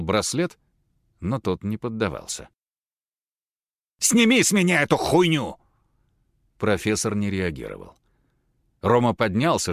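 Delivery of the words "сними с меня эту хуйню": high, loud furious demand; furious yell. Acted. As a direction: rage at the bracelet. Roma tearing at bracelet.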